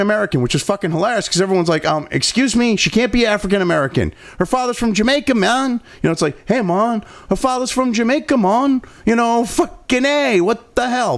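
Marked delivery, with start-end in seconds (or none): 2.1-5.8 a hint of a mocking Jamaican accent, lightly done; half-hearted Jamaican accent impression; bad Jamaican accent. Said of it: "Bad Jamaican accent". 6.4-11.2 lightly done mock Jamaican accent; bad Jamaican accent. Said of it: "Bad Jamaican accent".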